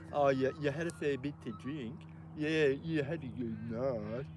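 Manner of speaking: lightly voiced casual gang member, slowing at the end; imitating Flockie's talk. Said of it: "that's how he talks".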